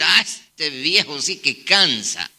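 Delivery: put-on low, slow exasperated groan of a grown child; imitated fed-up son; mock weary complaint. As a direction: complain slowly about a tiresome parent. Children's weary complaint about parent.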